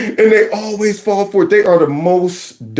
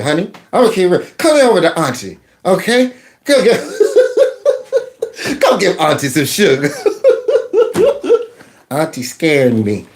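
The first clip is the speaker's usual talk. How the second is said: put-on drunk aunt; 4 semitones lower than usual. Playing drunk aunt character.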